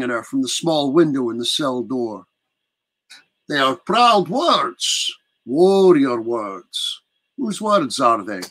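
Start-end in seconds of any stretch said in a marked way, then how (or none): 3.5-8.4 lightly voiced old count, slow and measured; a hint of a menacing old prince; slow old villain. Captor questioning the prisoner through the cell door, slow.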